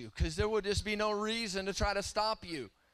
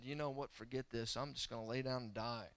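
much softer, lower, defeated mutter; weary giving up; 6 semitones lower, 8 dB quieter than usual. Retold or imitated. Apostle John alone on Patmos, soft and defeated. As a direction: sound like you're ready to quit. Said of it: "He could have just said".

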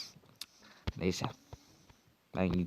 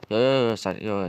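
loud denial; 2 semitones higher, 5 dB louder than usual. Acted. Hurried denial in the quarrel.

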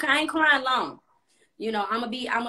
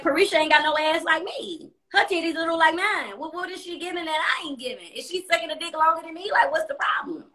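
raised pitch, mock-offended rant; higher indignant inner voice; 7 semitones higher than usual. Comparing herself to the other girl, indignant and higher. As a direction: sound baffled and put out. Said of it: "I was like".

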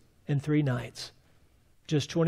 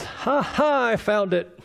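higher, gleeful gotcha voice; mocking unbeliever; 5 semitones higher than usual. Preacher mocks the skeptic who thinks he found a Bible error, gleeful and higher. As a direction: crow like a smug skeptic catching an error. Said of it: "the unbeliever comes to this verse and says".

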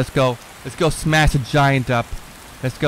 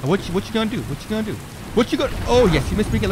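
high, excited taunt; 9 semitones higher, much faster than usual. Real, not acted. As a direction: goad the giant gleefully. Taunting giant mid-fight.

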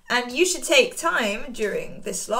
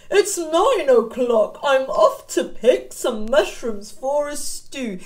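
a lightly voiced wolf, a little louder; cheerful Mister Wolf; 2 semitones higher, 5 dB louder than usual. Wolf telling the children he picks mushrooms, lightly voiced. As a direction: cheerfully announce your plans.

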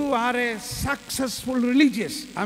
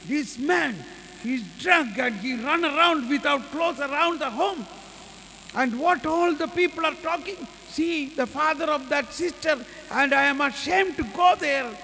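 high, raised voice scolding her father; angry scolding; 6 semitones higher than usual. Retold or imitated. Ashamed sister scolding her drunk father, angry and high. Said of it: "so angry".

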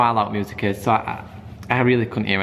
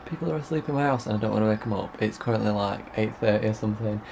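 hushed so nobody wakes; whisper, people asleep nearby; 5 dB quieter than usual. Real, not acted. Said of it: "I am whispering because".

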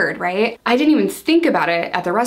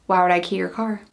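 emotionless, stone-faced. Retold or imitated. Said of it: "Like, emotionless, stone-faced".

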